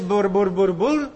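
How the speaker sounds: «Μπουρ, μπουρ» babbled as nonsense syllables; stammering-lips babble; babbling bur bur. Shown as a demonstration. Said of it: "και λες".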